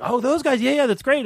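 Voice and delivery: lightly high, breezy yes-sure tone; breezy mock enthusiasm. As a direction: toss it off like a casual yes. Imitating his own breezy reply.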